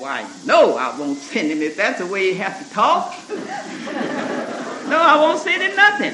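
loud, huffy mock refusal; a hammed-up offended father saying no; indignant refusal.

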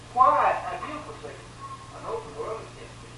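a near-silent lament; whispered despair. Retold or imitated. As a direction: breathe it out like a broken man. Preacher voices Christ's despair.

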